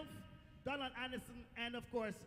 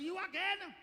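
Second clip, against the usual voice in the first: raised, exclaiming principal's question; exasperated principal; 4 semitones higher, 4 dB louder, slower than usual. Retold or imitated. Principal exclaims at seeing him.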